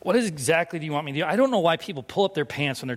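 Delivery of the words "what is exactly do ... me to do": quick, mock-casual question; feigned cool. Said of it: "trying to be cool about it".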